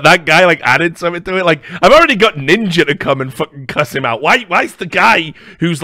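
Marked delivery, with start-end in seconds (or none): none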